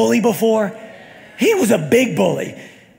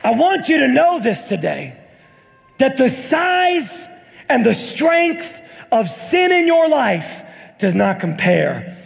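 rising, ringing preacher's cadence over music; stretched, booming sermon delivery; full-force preaching. Acted. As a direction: preach it to the congregation.

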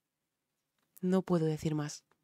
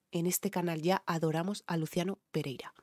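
whispered aside; 6 dB quieter than usual. Real, not acted. Confiding aside to viewers.

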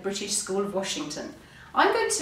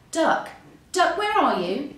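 high, loud searching call; 7 semitones higher, 5 dB louder than usual. A narrator's reading. Hare searches Duck's empty house, calling out. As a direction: call out for a missing friend. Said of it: "shouted Hare".

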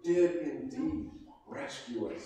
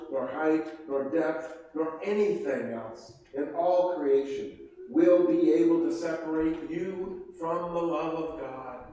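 scripture reading. Acted. Preacher reading Romans to the congregation, rising fervor. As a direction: proclaim each nor to the congregation.

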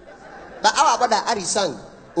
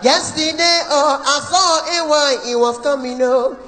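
wife singing the high part, higher; high note; 4 semitones higher than usual. Retold or imitated. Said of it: "Mama Okoro".

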